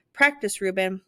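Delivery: firm teacher's nudge; firm urging. Acted. Maestro urging the boy.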